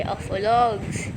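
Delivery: "Alpha logs" with the B sound left out. Shown as a demonstration. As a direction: say "Alpha logs" slowly, dropping the B. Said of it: "Alpha logs without the B".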